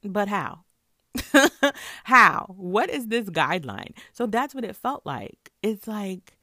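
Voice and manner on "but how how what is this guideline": loud, high, incredulous; indignant outburst. Retold or imitated. A kid protesting the half lunch ticket, loud and indignant. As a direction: protest it, half laughing in disbelief. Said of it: "And I'm like".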